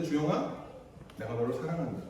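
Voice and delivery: soft, low loving words; a hushed, tender declaration of love. Retold or imitated. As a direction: say it gently, like holding a child. Loving parent speaking tenderly.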